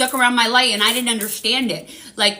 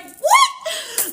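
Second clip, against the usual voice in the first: retold shock. Her shocked reaction to the voice.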